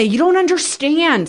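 high, frustrated mock yell at husband; retold scream. Wife recalling screaming at husband, high mock yell. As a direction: pitch it up like a toddler's frustrated wail. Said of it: "I would scream that".

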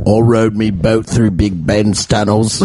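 slow, silly British voice; mock British accent. Host improvising London boast, slow British accent. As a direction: stretch it out as a Brit. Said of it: "do a British accent".

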